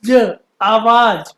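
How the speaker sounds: आवाज said slowly, letter by letter; slow teaching read of आवाज; slow spelling. Shown as a demonstration. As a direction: sound out ज then आवाज. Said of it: "ज में कौन सा यूज़".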